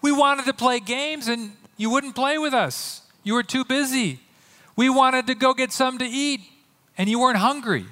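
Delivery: high-pitched mock childish complaining; whiny kids. Whiny kids complaining about other kids who wouldn't play, mock whining. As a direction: whine it like a let-down playmate. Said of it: "like some whiny kids complaining".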